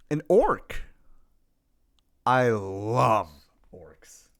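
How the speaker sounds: put-on Death Wolf accent, sinking to a low murmur. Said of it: "pull out the Death Wolf accent".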